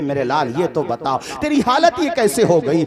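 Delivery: a mother pleading, voice rising to a cry; mother's anguished cry. Acted. (बेटे से बिलखती माँ की ऊँची पुकार)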